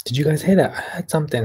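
real jolt of alarm at a noise; spooked. Real, not acted. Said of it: "That was scary as hell".

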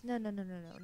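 rising panic, pleading no over and over; panicked denial. Acted. Mayu lost and alone, frantic panicked pleading. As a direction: refuse it, frantic and scared.

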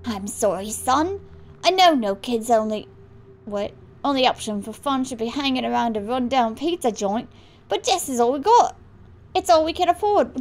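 attempted Australian accent, apologetic; lightly Australian-accented dad excusing himself. Dad apologising to son about pizza joint, attempted Australian accent. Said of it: "like, sort of Australian".

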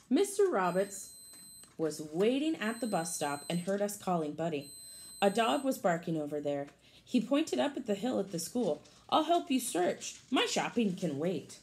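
lively storybook read for a class; picture-book read-aloud voice; reading to children. Acted. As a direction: read it brightly to the kids.

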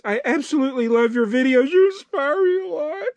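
hammed-up choking up while reading praise; overcome with emotion. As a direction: voice climbing into a high, tearful squeak. Overcome reading fan praise aloud.

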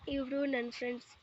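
lightly sarcastic husband, understated; a mild sneer under the words; a touch of mocking sarcasm toward his wife. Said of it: "ವ್ಯಂಗ್ಯವಾಗಿ ಕೇಳಿದನು".

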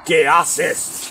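a hint of a low thundering tiger; gruff big-cat growl, lightly done; lightly voiced tiger. A narrator's reading. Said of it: "con toda su voz de trueno".

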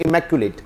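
teacher demonstrates "इमैक्युलेट" syllable by syllable; model pronunciation. Shown as a demonstration. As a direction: model "इमैक्युलेट" clearly with a falling close. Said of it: "सुन के सीखना".

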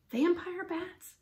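slow, high-pitched dismayed question; drawn-out, horrified echo; faint with dread. A narrator's reading. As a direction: repeat it slowly in alarm, falling away. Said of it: "He felt faint".

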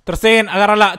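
loud urgent plea; loud pleading. Real, not acted. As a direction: beg the keeper to save it. Pleading goalkeeper to save.

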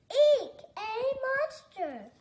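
"Eek, a monster!" shrieked high and loud with a laugh; laughing scream. A narrator's reading. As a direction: squeal "Eek" playfully, giggling. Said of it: "screamed Fox".

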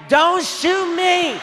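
high, very slow, drawn-out scared plea; mock terrified plea. Girlfriend begging the high boyfriend, hammed-up terror. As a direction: stretch it out like she's frozen in fear. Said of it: "She was like".

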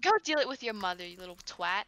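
quick put-on British accent. Player insulting a friend in jest, quick British accent. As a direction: rattle it off as a mock Brit. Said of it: "stop with these accents".

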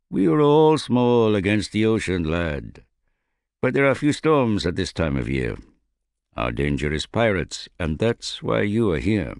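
a lightly voiced gruff captain, boastful; proud old captain. A narrator's reading. Captain boasting to the young bowman about his ship, lightly gruff.

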